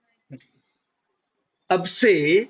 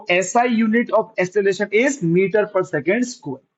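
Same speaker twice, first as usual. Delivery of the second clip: slow dictation; 2 semitones higher, much slower than usual. Shown as a demonstration. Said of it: "teacher stating SI unit".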